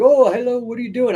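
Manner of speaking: high, lightly attempted Northern English cabbie greeting; attempted Northern English accent. Martial arts nerd cab driver greeting his passengers, attempted Northern English accent. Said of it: "I can't do the accent, but, you know, very northern accent".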